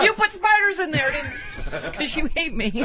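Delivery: mock accusing.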